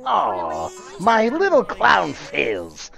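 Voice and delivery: mock pity. Real, not acted. Teasing the Joker character.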